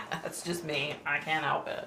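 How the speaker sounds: soft words through a chuckle; laughing apology. Real, not acted. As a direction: giggle helplessly while owning up to it. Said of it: "I just laugh".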